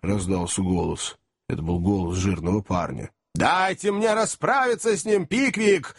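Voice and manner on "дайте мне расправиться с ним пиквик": high-pitched enraged outcry; furious yell. A narrator's reading. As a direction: cry out, itching to get at him. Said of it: "закричал мистер Уордль".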